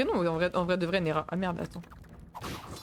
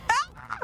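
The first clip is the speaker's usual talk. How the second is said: short, high-pitched cry; sudden high "ah" of alarm; startled yelp; 13 semitones higher than usual. Real, not acted. Player burned by fire in the game, startled yelp.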